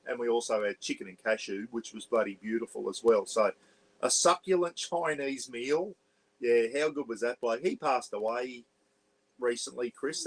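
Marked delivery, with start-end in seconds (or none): 4.0-5.9 put-on slow, raised, lightly posh English accent; a hint of posh English, savouring each word; posh Pommy accent. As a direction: imitate a posh Englishman, drawn out. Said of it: "like a posh Pommy accent".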